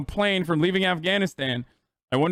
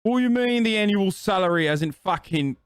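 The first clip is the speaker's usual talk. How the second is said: mock angry boomer; 3 semitones higher than usual. Mocking boomer tweet author.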